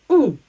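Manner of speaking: "on" as one loud nasal vowel, no n; isolated, emphatic nasal "on"; French nasal sound. Shown as a demonstration. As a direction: demonstrate French "on" through the nose. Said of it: "makes the sound".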